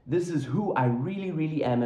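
REALLY repeated for weight; emphatic declaration. Retold or imitated. Preacher voicing God explaining his doubled name, emphatic. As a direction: lean firmly on REALLY, REALLY as a declaration. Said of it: "it's emphatic. He's like".

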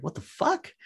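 mock stunned crew member; baffled what the fuck. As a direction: squeak it out in shock. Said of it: "you're like".

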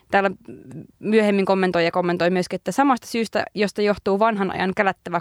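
reading out a forum post; quoted complaint, read aloud. Acted. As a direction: read it out as written text, with measured phrasing. Reads forum posts aloud.

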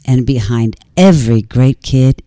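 slow, low, whispered ghost voice; low haunting voice. Pretend. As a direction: whisper it like a spirit beyond. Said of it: "I'm hoping it comes in ghost voice".

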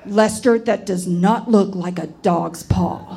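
loud opening, then slow, forceful delivery; retold outburst, barely restrained; on the verge of screaming. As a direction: imitate a grandmother struggling not to scream. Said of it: "on the verge of screaming".

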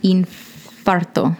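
Infarto slow, Spanish vowels; Spanish word. Shown as a demonstration. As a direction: say Infarto slowly, Spanish style. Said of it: "un infarto".

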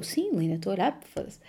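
retold grumble under the nurse's insistence; muttered retort. Patient's exasperated reply, retold. (resposta resmungada em voz baixa)

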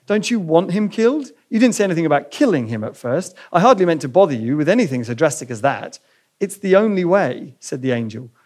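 reading a novel passage aloud to the church; voicing the ghost and angel lightly in turn; story reading. Preacher reads a Lewis passage to the congregation, story reading.

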